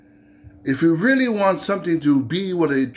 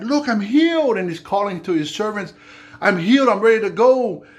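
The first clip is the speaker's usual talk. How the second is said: higher, joyful calling out; excited shout; 6 semitones higher than usual. Acted. Naaman calling to his servants, overjoyed and higher. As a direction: call to them, thrilled to be healed.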